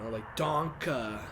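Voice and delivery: slow, drawn-out danke; wrong pronunciation. Shown as a demonstration. Friend shows how not to say danke. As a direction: stretch the word danke as the wrong example. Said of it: "not danke".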